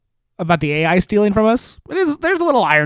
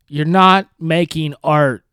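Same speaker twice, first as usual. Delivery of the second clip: slow, put-on prissy reading; mock Zelda voice; slower than usual. Host mocking Zelda's AI statement, slow put-on voice. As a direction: drag each word out in a lightly mocking voice. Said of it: "This is how she sounds".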